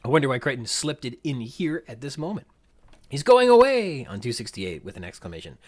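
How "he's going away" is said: high, loud mock kid's shout; Lex. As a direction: yell it out high and excited. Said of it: "said by Lex twice".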